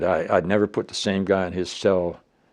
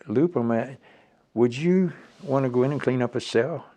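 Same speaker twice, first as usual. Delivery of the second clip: raised, pointed challenge; challenging; 7 semitones higher, 5 dB louder than usual. Retold or imitated. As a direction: needle him with a question. Retold heated argument with colonel.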